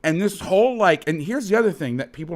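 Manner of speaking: exasperated, emphatic rant; heated and fed up; getting pissed. Real, not acted. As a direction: drive each rhetorical question home, worked up. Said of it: "Sorry, I'm getting pissed".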